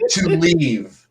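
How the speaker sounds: mock dragon line broken by laughter; laughing through the quote. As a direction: repeat the offer while laughing.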